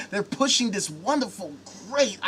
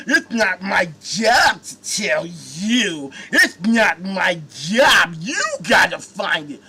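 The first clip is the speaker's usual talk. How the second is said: mocking churchgoer; 3 semitones lower, much slower than usual. Mocking a church member's answer.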